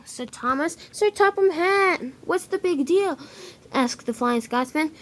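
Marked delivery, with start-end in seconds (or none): 0.9-2.0 high, slow calling of his name. Acted. Thomas calls after him. 2.3-3.2 Flying Scotsman voice. Acted.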